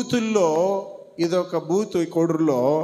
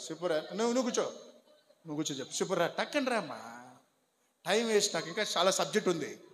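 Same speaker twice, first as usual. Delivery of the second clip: softer, quick hushed instructions; hushed aside; 7 dB quieter, faster than usual. Real, not acted. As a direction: keep it down while the room whispers. Hushed instructions while slips pass. (మెల్లగా, నెమ్మదిగా చెప్పే సూచనలు)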